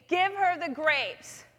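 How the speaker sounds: slow, deliberate, each word weighed; slow divine prompting. Retold or imitated. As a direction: voice of the Spirit telling her to give grapes, slow and calm. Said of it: "I heard him say to me".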